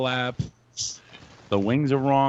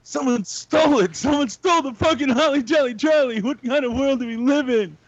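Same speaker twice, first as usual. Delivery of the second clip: high, loud outraged yell; 4 dB louder than usual. Retold or imitated. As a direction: shout it in disbelief at the theft. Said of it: "And I'm like".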